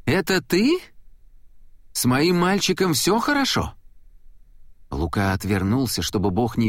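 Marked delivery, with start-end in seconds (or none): 0.0-3.7 a high, worried mother's voice; anxious mother. A narrator's reading. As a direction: fret over your boy, high. Anxious mother calling from kitchen. (встревоженная мать, высокий голос)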